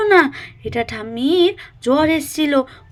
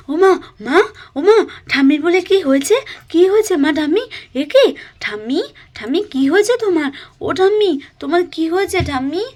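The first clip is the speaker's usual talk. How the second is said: louder, worried calling for mother and grandma; alarmed girl crying out questions; panicked child; 3 semitones higher, 5 dB louder than usual. Acted. Girl rushing in to her sick grandma, frightened and loud.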